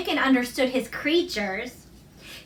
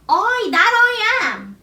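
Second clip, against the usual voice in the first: higher, slow, motherly Yorkshire voice; 8 semitones higher, 4 dB louder than usual. A narrator's reading. Susan answering Colin, a lightly voiced Yorkshire mother. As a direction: speak as a kind country mother.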